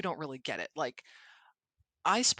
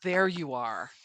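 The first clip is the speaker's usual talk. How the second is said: mock greeting to nerves; 2 semitones higher, 4 dB louder, slower than usual. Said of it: "in a dead panic".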